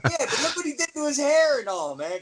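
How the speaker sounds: high, quick wife voice; lightly imitating the wife; fast, lifted voice for the wife; lightly voiced wife. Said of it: "she goes".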